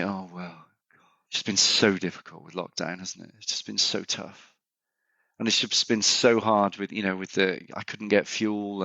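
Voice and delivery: mock woe-is-me excuse-making; patronizing. Speaker parodying people blaming lockdown for everything, patronizing. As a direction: put on a lightly condescending, poor-me tone. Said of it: "as I use that certain tone of voice".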